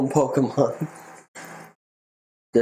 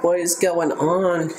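higher, slow hammed-up bewilderment; hammed-up confused cry; mock bewildered; 7 semitones higher than usual. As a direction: stretch it out, playing lost and confused.

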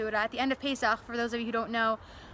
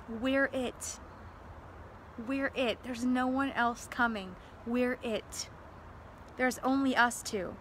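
softer, hushed grim reply; silent answer; 5 dB quieter, slower than usual. Retold or imitated. Soldiers quietly answering the pilot, hushed. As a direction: say it quietly, as if barely spoken. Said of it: "they silently answer him".

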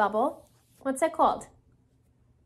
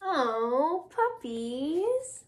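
soft, dreamy pigeon swoon; lovestruck; 3 dB quieter, much slower than usual. Acted. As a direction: swoon softly over puppies. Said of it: "It means love".

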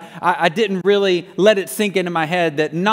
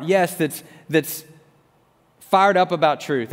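earnest, lowered plea to God; retold prayer; 3 semitones lower than usual. Officer asking God for a heart of grace, earnest prayer. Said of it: "I've gone back and said".

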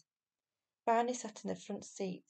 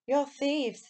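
put-on boy's accusation; 6 semitones higher, 7 dB louder than usual. A narrator's reading. Boy accuses the men.

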